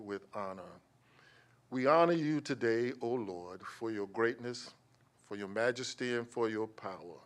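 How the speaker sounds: solemn spoken prayer, rising on each petition; public prayer. Acted. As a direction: pray over the commission and staff with reverence. Leads the closing prayer.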